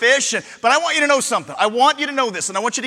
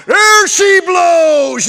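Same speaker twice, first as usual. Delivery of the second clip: long, drawn-out higher yell; lookout's shout; 6 semitones higher, 8 dB louder, much slower than usual. Retold or imitated. Whaling lookout spots the whale, long loud yell. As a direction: call it out from the crow's nest. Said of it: "he yells out".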